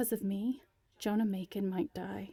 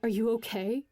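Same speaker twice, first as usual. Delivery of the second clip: loud, anxious question; urgent concern for a fallen friend; worried; 4 dB louder than usual. A narrator's reading. Friend checking on Alex after the fall, worried. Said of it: "cries Steph".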